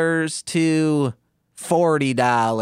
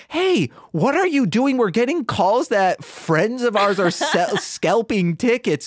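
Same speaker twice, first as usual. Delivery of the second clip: Josie confronting; 7 semitones higher than usual. Acted.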